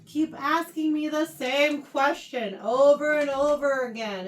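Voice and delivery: mildly frustrated complaint; slow, put-upon questioning; frustrated, upset. Acted. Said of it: "I'm sure he's frustrated. He's upset".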